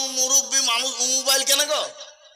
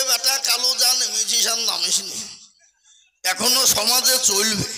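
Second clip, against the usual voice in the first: pleading headmaster. Retold or imitated. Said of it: "জোর হাত করে বলছে".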